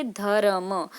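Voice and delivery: धर्म said as dha-ra-ma with a full r and a trailing vowel; धर्म, every letter voiced; full r spelled out. Shown as a demonstration. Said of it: "इसको तोड़ के तो कुछ इस तरह से लिखा जाएगा".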